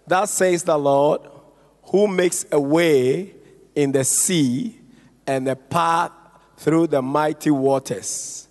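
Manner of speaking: measured, phrase-by-phrase Bible reading; scripture reading. Acted. Preacher reads scripture to the congregation, measured scripture reading. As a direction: read the verse out deliberately, pausing between phrases.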